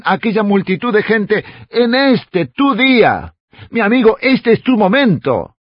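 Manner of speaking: urgent preaching. Real, not acted. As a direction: press the appeal home to the listener. (prédica apremiante, en tono más agudo)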